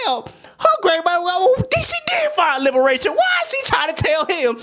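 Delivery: high, put-on wavering voice; mock flustered man. Man gives in to the girlfriend's argument, high mock whimper. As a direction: play the man backing down.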